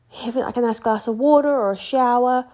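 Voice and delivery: speaking through a yawn. Real, not acted. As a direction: talk mid-yawn. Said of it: "I just yawned".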